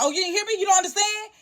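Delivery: mock accent. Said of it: "we will mock their accent".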